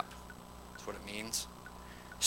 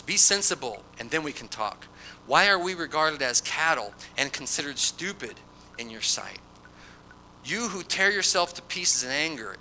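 measured public reading with lifted pitch; scripture reading. Acted. Preacher reads Bildad's challenge to Job, declaimed scripture reading. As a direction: read the verses out to the congregation.

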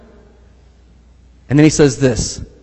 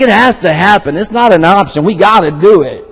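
higher, louder, urgent insistence; a touch of hammed-up determination; mock driven insistence; 3 semitones higher, 4 dB louder than usual. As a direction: play the unstoppable zealot. Mimicking driven visionaries.

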